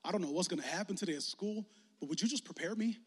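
soft, quiet prayer before school; hushed prayer. Retold or imitated. Youth pastor voicing a student's morning prayer, hushed. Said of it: "prayed something like this".

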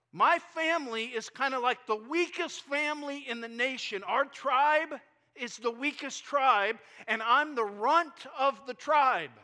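a scared man pleading he's the weakest; whining Gideon. Retold or imitated. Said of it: "he goes into just whining".

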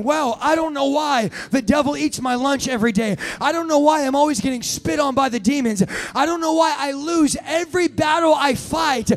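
mock defeated believer. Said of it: "then going".

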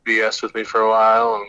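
phone call sound; on speakerphone. Real, not acted. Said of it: "That's why I sounded like speakerphone".

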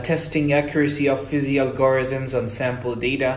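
fluent reading in a practised English accent; present English accent. Shown as a demonstration. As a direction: read it smoothly in American-style English. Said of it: "لهجتي الحين ما هي زي كذا".

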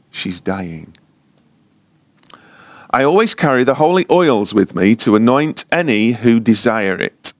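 steady, projected reading of a first-person account; story read aloud. Acted. Preacher reads a leper colony story to listeners, reading aloud. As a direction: read it out to the room in flowing phrases.

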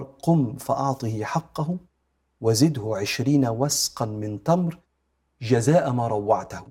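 slow, calm instruction; gentle and merciful. Acted. The Prophet calmly tells Omar to pay, slow and kind. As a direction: grant it patiently, with mercy. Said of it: "في تؤدة ورحمة".

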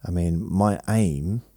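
talking around a phone held in mouth; words muffled by a phone between teeth. Real, not acted. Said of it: "I'm holding the phone in my mouth".

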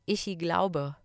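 "Ichi glaube" with an extra i after ich; imitated learner pronunciation. Quoting students of German, "Ichi glaube" with an added vowel. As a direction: slip a little i into "Ichi glaube". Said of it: "die sagen immer".

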